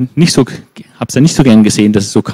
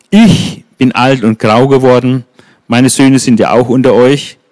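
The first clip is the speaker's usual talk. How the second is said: solemn farewell speech. Acted. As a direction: speak like an old prophet taking leave. Samuel quotes his farewell speech.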